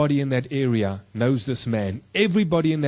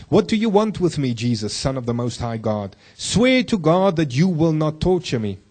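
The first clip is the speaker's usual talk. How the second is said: demon shouting; 2 semitones higher, 3 dB louder than usual. Retold or imitated. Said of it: "He shouted at the top of his voice".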